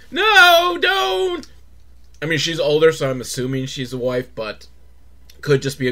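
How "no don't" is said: high, shrill mock warning; mock scream. Wife begging her husband to stay out, mock scream. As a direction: cry out to stop him. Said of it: "his wife's like".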